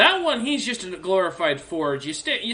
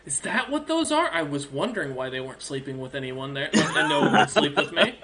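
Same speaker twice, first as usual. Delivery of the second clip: giggling through the words; laughing dragon; 2 semitones lower than usual. Acted. Dragon reacting to the broth joke while laughing. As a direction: chuckle in puzzled amusement. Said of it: "She looks at us and says".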